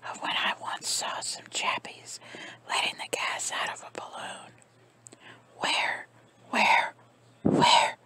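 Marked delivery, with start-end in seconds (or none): 5.6-8.0 rising higher with each where; gurgled. Acted. Aunt gurgling in disbelief, voice climbing high. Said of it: "she gurgled".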